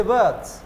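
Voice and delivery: "वर्ड्स" as "vuds", no R; silent R. Shown as a demonstration. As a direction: drop the R in "वर्ड्स". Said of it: "R remains silent".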